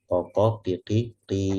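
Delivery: ko and ki tapped out short; short vowel demo. Shown as a demonstration. Teacher demonstrating short vowels to students. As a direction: sound each short syllable. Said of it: "gitu, gambaran seperti itu".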